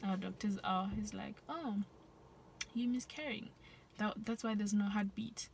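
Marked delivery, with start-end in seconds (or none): 1.5-5.5 casually chill doctor. Retold or imitated. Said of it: "you know how, how chilled our doctors are".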